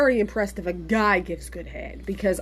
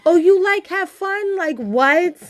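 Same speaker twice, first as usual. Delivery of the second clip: imitating a Spanish accent; 8 semitones higher, 3 dB louder, slower than usual. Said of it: "every camera girl ... don't speak English".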